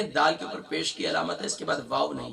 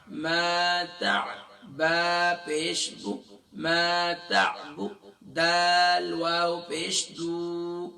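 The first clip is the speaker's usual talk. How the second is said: slow spelling-out; much slower than usual. Shown as a demonstration. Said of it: "spells the verse letter by letter".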